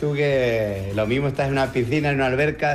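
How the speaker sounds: voz con eco de teléfono; dentro de un tanque metálico. Real, not acted. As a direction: como hablando dentro de una bodega. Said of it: "tienes un eco que, madre mía". (voz con eco, como dentro de una bodega)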